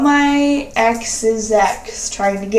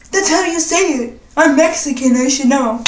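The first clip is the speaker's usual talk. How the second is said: put-on smug boyfriend; 3 semitones higher than usual. Boyfriend's smug claim voiced.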